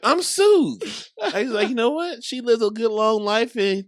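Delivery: laughing retelling. Real, not acted. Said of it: "good McConaughey voice".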